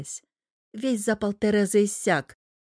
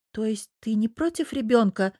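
ordinary delivery, nothing marked

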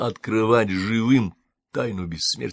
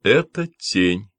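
even voice; 4 dB louder, slower than usual. Acted. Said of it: "ровным голосом сказал гость".

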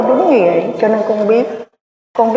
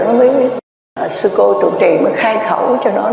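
ordinary talk, nothing marked

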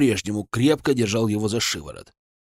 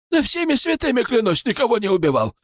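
higher, lamenting wail; 11 semitones higher than usual. A narrator's reading. Frightened merchant wails his innocence to the colonel. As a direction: plead and keen by all the saints. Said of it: "запричитал купец".

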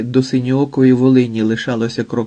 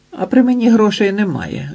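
much higher, impudent reply; cheeky; 9 semitones higher than usual. A narrator's reading. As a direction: toss it back with cheek. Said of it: "відповів зухвало".

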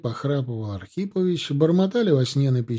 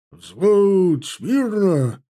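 a sharp, louder military bark, pitched up; barked command; 7 semitones higher, 7 dB louder, much slower than usual. A narrator's reading. Sergeant calling his platoon to attention, a loud bark. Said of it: "рявкнул".

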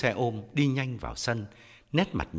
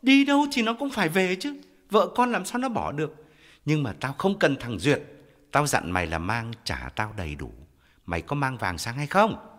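loud, pressing interrogation; stern scolding; 5 semitones higher, 5 dB louder than usual. Acted. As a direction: lean on her hard. Brother berating sister over gold.

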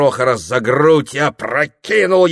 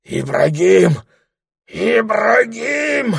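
hissed terror; 11 semitones higher, much slower than usual. Acted. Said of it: "шипит".

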